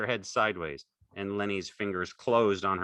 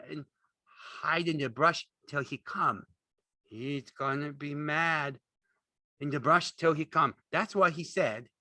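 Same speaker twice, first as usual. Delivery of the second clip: slow, high, simple-minded worry; anxious; 9 semitones higher, 3 dB louder than usual. A narrator's reading. Lenny recalls George's instructions, anxious. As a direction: recite anxiously in a high character voice.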